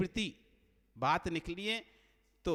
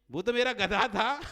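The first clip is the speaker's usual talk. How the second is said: loud reveal; 4 semitones higher, 8 dB louder than usual. Acted. Washerman's punchline reveal.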